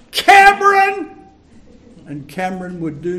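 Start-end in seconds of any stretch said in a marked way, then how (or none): 0.1-1.1 high, loud call across the yard; mother's shout. Retold or imitated. Mother calling her son in from the veranda, loud shout. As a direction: yell the boy's name from the veranda. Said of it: "veranda and shout".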